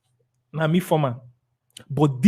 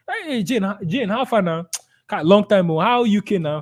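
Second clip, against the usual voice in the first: friendly greeting; 2 semitones higher than usual. Acted. Seller greeting a friend abroad, friendly and animated. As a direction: hail a long-lost friend, pitch jumping at first. Acted call to an old friend.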